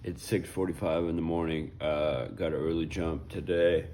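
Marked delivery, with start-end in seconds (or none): 1.2-3.9 hiccuping mid-sentence; words broken by hiccups. Real, not acted. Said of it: "Excuse the hiccups".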